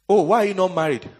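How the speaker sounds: loud, pushy mocking question; nosy questioner. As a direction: needle them about marriage. People mocking a single believer.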